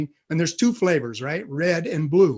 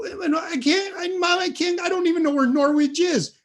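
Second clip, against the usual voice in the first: put-on much higher, laughing kid's whine; whiny protest; 10 semitones higher than usual. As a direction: plead with mom in a high whine. Brother protests summer camp.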